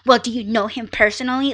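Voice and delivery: mock confrontational question, quick and pointed. Shown as a demonstration. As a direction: ask it as if challenging him. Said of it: "I'm not like".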